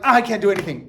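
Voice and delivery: a hint of helpless despair; mock despair. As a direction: give up out loud. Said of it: "I'm just like".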